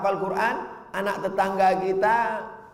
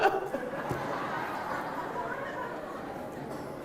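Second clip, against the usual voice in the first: high breathy mock wail; 11 dB quieter than usual. Mock mother sob-laugh.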